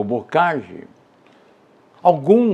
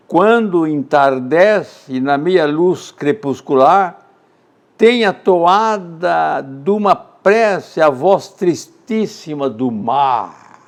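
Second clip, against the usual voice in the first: slow, louder declaiming of the verse; poem recitation; 3 semitones higher, 5 dB louder, much slower than usual. Acted. Teacher asks students to listen, then declaims slowly. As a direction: let the sea's sadness ring out. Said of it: "Escutem bem".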